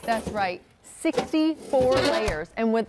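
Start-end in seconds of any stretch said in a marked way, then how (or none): 0.8-2.5 slow, higher echo of sixty-four layers; drawn-out sales emphasis. Real, not acted. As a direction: savour the number as you repeat it. Cohost echoes the selling point.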